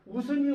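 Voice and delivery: 웃으니 with ㅅ carried over, "u-seu-ni"; pronunciation demo. Shown as a demonstration. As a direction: sound out 웃으니 as [우스니]. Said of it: "발음을 올려보면 웃으니가 되죠".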